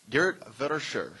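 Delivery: name said the Dutch way, in a Dutch accent. Shown as a demonstration. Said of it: "I'm trying to say this with a good Dutch accent".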